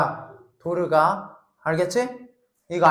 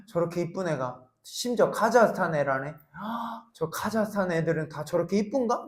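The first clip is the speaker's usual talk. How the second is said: inner thought; 3 semitones lower, 8 dB quieter than usual. Pretend. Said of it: "막 이런 생각하면서".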